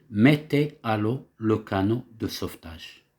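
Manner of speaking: a mild captain's command, "mettez" leading; captain giving an order. Shown as a demonstration. Teacher voicing a captain ordering sailors, lightly commanding. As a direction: give the order like a ship's captain, understated. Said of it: "c'est le capitaine qui donne un ordre".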